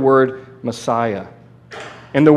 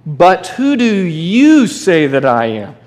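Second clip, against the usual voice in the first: slow, searching question, each word weighed; Jesus asking; 2 semitones higher, 3 dB louder, slower than usual. Retold or imitated. Jesus asks his disciples who he is, slow and probing. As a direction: ask it slowly as Jesus would. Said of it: "and he asked them".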